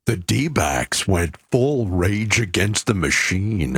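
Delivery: low, slow dramatic growl; Wolf voice. Pretend. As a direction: drop into a deep movie-trailer drawl. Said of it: "That didn't call for the Wolf voice".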